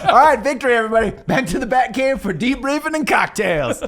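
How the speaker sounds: rally the team like a cheesy action hero; triumphant hero cheer. Pretend. Team America style cheer.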